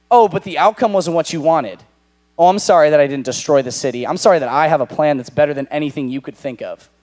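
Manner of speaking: snide, a bit loud and quick; bitter sarcastic sorry; sarcastic mock apology. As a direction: sneer the apology. Imagined sarcastic reply continues.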